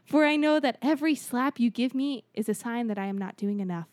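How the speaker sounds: grand speech. Acted. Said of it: "Was this an Obama speech?".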